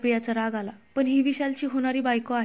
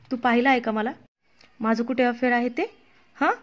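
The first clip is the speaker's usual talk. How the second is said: offended wife confronts accuser angrily; angry. Acted. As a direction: hurl the questions back at her. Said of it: "अमृताने रागात विचारलं".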